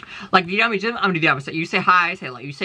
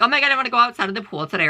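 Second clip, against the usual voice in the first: high, fast, gushing mock excitement; mock excited gush; 7 semitones higher, faster than usual. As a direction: squeal it like a giddy fan. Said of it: "you're like".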